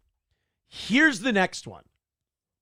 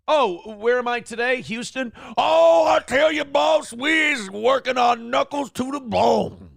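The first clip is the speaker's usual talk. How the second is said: mock Southern accent; 5 semitones higher, 3 dB louder than usual. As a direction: shout it out like a fake folksy Southern politician. Mocking her put-on Southern accent.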